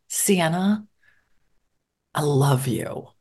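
soft, low and tender. Retold or imitated. Mother calming her frustrated teenage daughter, soft and tender. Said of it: "So I'd look at her and I'd say".

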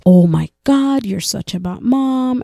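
imitating a scandalized critic; mock shaming with stretched, lifted words; mock judgmental. Critics shaming a mom over formula, mock judgmental.

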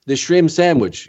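put-on slow, drawn-out French Canadian accent; Rene Goulet. Recalling a colleague praising his sandwich, French Canadian accent. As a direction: imitate a French Canadian, stretching out "shrimp sandwich". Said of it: "I remember Rene Goulet would say".

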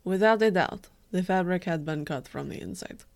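put-on reading a quote in a Russian accent; light Russian accent for the seamstress. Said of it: "but in a Russian accent".

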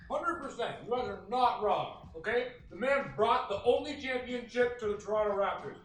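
talking with a mouthful of pizza; chewing while he speaks; mouth full. Real, not acted. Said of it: "Mish reports with a mouthful of pizza".

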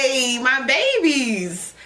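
slow, drawn-out call to her babies; gushing greeting. Real, not acted. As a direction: call out lovingly and slowly to the viewers. Greeting viewers with a cry.

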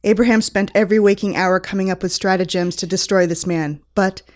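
lightly dramatic story reading; story narration. Acted. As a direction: read it like a romance novel. Reads fan fiction aloud.

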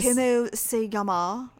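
slow, exaggerated mock Spanish accent. Making fun of teen son's flat Spanish, exaggerated mock accent. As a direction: drag out como se llama in a hammed-up accent. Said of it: "I don't even know what accent that was".

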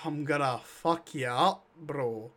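piratical Scottish mock threat; playful threat in a bad Scottish accent; half-hearted Scottish hard man. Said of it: "You sound like a weird pirate".

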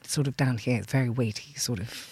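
low, weighty voice; down here and weighty. Shown as a demonstration. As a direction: drop the voice down, heavy and low. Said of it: "you hear a voice that goes".

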